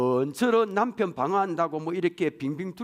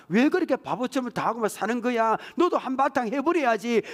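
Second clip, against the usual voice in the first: indignant mother; 6 semitones higher than usual. Acted. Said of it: "딸 편 대줍니다".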